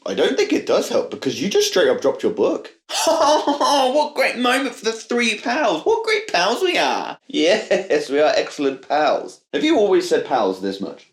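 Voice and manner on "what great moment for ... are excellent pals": slow, gushing mock Aussie; cartoon Australian best pal; bad Australian accent. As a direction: draw it out in a hammed-up Australian twang. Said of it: "is that how Australian people speak".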